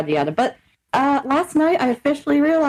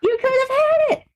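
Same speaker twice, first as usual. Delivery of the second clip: high, slow laughing jeer; laughing taunt; 11 semitones higher than usual. Real, not acted. Mocking the ex who lost her, laughing high. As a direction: taunt him through laughter.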